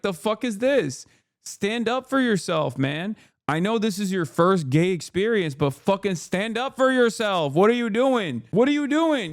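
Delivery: high-pitched, worked-up pep talk; exasperated scolding. Acted. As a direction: plead with him as you scold, pitch climbing. Acted scolding of show character.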